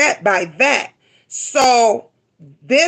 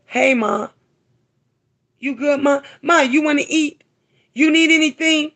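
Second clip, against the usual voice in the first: a lightly voiced caring son, rising higher; 6 semitones higher than usual. Mother imagining her son asking if she's okay, lightly voiced. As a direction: gently play the son checking on his mom.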